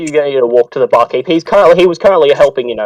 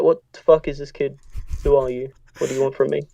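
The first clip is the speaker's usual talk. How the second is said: wary barkeep; 9 dB quieter than usual. Acted. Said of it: "kinda weary now".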